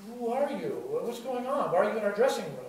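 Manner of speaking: lightly acted bafflement; mock bewildered. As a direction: retell it as puzzled demands to a stranger. Startled band confronts stranger in dressing room.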